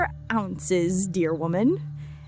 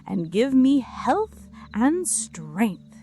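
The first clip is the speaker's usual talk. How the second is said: cried out; 5 dB louder than usual. Acted. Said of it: "cried the little tailor".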